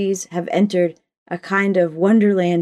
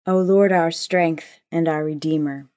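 prayer. Acted. Opening prayer before sermon.

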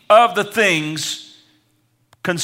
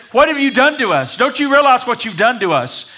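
higher-pitched, indignant retold reproach; upset mother's reproach; 5 semitones higher than usual. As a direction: voice an exasperated mother questioning her child. Mary reproaching young Jesus in retelling.

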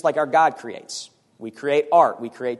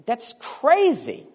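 incredulous; 5 semitones higher, slower than usual. Acted. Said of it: "And he's saying".

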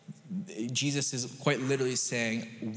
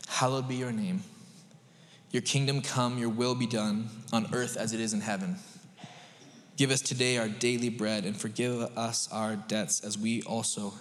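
scripture reading; 2 semitones lower than usual. Acted. Reads the Lord's Prayer aloud.

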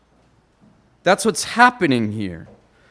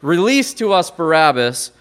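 preacher voicing the mob, louder; a loud mock crowd shout; crowd outcry; 5 dB louder than usual. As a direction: call it out like the crowd at the trial. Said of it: "they're crying out".

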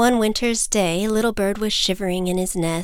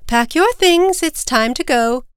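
high, raised-voice instruction; mother calling out; 6 semitones higher, 5 dB louder than usual. Acted. Mother bird tells chick to pack, calling out. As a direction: chivvy the child along in a high voice.

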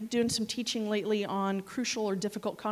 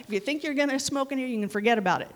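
put-on Bronx accent; 2 semitones higher, faster than usual. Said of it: "a pilot from the Bronx".

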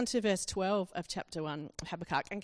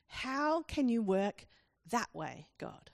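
bewildered appeal; 2 semitones higher, much slower than usual. Acted. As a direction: plead with God, baffled. Acting Habakkuk's complaint to God.

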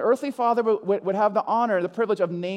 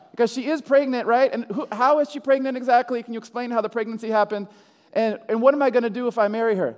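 flustered questioning; 3 semitones higher, 4 dB louder than usual. Acted. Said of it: "for Joseph to say".

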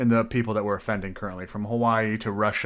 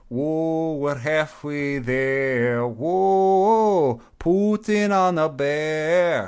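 drawn-out, higher half-sung Russian accent; 4 semitones higher, 4 dB louder, much slower than usual. Shown as a demonstration. Reading a Putin meme to a co-host, in Russian accent. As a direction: stretch each word in a hammy Russian accent. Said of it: "I read it in a Russian accent".

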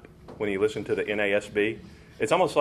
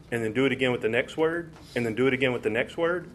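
fast demo; faster than usual. Shown as a demonstration. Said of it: "inflect and emphasize every single word".

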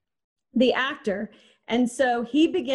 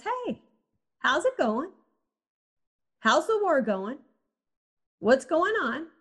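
breezy, falsely friendly chatter; a king faking easy small talk with his soldier; mock casual small talk; 4 semitones higher than usual. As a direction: play it light like nothing's wrong. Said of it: "It's like they're having small talk".

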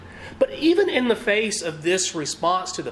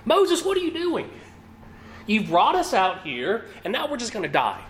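panicked Israelites; 5 semitones higher than usual. Acted. Frightened Israelites crying out at Moses in panic. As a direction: panicky high cry, rushing at Moses. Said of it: "sense the panic in the Israelites' voices".

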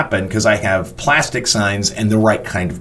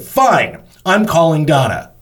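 higher-pitched mock huff; indignant threat; 6 semitones higher, 3 dB louder, slower than usual. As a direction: imitate someone threatening to report you. Retold threat to call boss.

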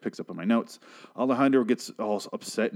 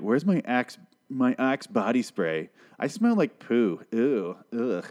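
mock spoiled whine; slower than usual. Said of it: "You're not gonna be like".

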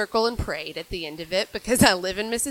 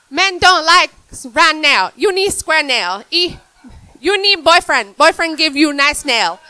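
put-on loud, high caricatured Asian accent; mock Asian accent; 7 semitones higher, 12 dB louder than usual. Comic shows what racist friends want, mock Asian accent. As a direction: exaggerate a choppy Asian accent, loudly. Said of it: "did it with an Asian accent".

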